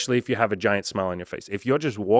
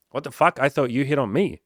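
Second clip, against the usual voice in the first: louder, higher mock-indignant yell; hammed-up disbelief at her claim; mock outrage; 5 semitones higher, 4 dB louder than usual. Coach as the guy, loudly feigning disbelief at the woman. Man retorts in comic roleplay.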